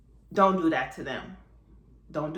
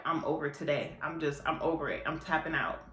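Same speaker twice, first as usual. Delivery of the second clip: worn out; 4 semitones lower, 3 dB quieter than usual. Retold or imitated. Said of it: "You're just like".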